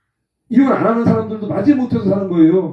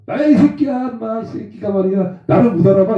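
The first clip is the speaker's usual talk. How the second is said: high, cocky mock shout; rude caller; 4 semitones higher than usual. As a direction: play the brash drunk caller. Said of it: "이러면서 그래".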